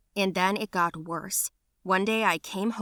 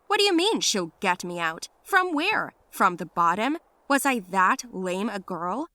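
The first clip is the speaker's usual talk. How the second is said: louder, offended questioning; indignant outrage; 4 dB louder than usual. Retold or imitated. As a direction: demand it like an insult. Indignant retort to grandmother's words.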